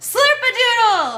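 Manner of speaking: very high, loud outside-voice yell. Demonstrating an outside voice to listeners, shouting as loud as possible. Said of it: "Now shout slurpadoodle as loud as you can".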